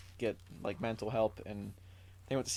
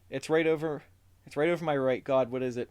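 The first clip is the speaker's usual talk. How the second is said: mock alarmed yell; 3 semitones higher, 4 dB louder than usual. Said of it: "yeah, this is a quote".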